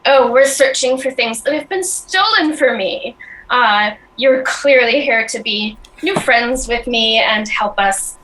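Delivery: a hint of a smarmy goblin charming the stranger. Goblin to Cloud, lightly voiced and charming. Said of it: "smiles in a very charming way".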